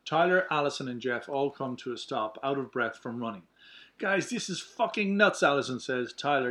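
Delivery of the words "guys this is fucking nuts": panicked. Acted. Panicked after running.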